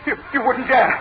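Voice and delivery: a cornered man losing his nerve; rising panic. Acted. Preston pleads with Blake about the gang, frightened.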